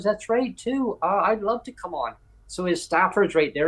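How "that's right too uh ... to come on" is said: high, eager mock enthusiasm; higher-pitched eager minister; Dan Culture impression. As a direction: pitch up and sound keen. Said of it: "He goes".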